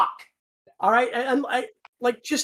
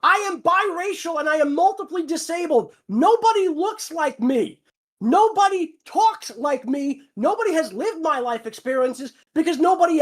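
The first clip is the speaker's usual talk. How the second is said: forceful ranting, voice raised; angry rant; 4 semitones higher than usual. Real, not acted. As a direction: vent it, hammering each line. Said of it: "This was a bit of a rant".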